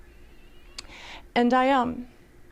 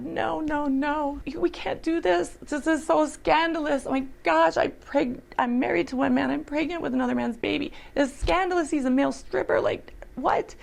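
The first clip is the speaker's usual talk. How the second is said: higher, distressed plea at ordinary volume; retold cry of disbelief, pitched up; pleading protest, recalled in a raised pitch; crying out to God; 4 semitones higher than usual. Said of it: "cried out to God".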